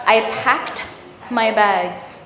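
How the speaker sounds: packed ending in a crisp T sound; voiceless T ending. Shown as a demonstration. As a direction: say packed as "pakt", no extra syllable. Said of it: "You hear a T".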